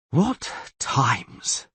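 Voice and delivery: sighed. Acted. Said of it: "sighed the Castellan".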